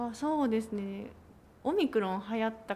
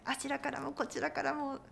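campaign announcer voice; 4 semitones higher, 3 dB quieter than usual. Retold or imitated. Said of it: "とか言ったりとか".

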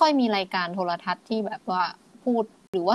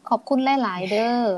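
Isan phrasing; 2 semitones higher than usual. Shown as a demonstration. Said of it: "คำว่ามาก ก็คือกลายเป็นคำว่าหลาย".

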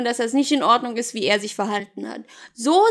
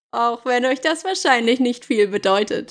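ordinary delivery, nothing marked

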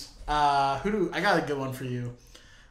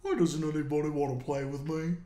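Reptar impression; 5 dB quieter than usual.

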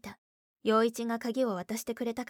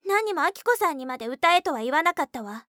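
loud, high sharp reply; angry; 6 semitones higher, 8 dB louder than usual. Acted. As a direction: fire it back, heated. Sisters quarrel. (強い口調で言い返す)

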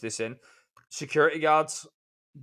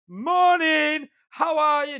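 high, loud, over-cheerful imitation; dead bubbly greeting; 12 semitones higher, 6 dB louder, much slower than usual. Regular customer greeting a tired driver at the hatch, dead bubbly. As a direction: belt out a chirpy hello, pitched right up. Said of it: "Dead bubbly".

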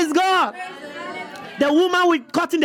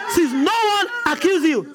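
laughing while quoting; 3 semitones higher than usual. Retold or imitated. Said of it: "He said".

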